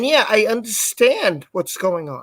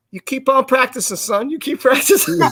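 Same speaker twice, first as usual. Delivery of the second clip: fatherly sergeant; 3 semitones higher than usual. Retold or imitated. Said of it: "and he goes".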